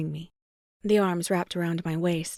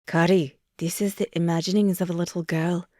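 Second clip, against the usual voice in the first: mildly lowered mock Scottish lecture; imitating him, condescending and a touch louder; mock Finch; 4 dB louder than usual. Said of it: "I lowered my voice".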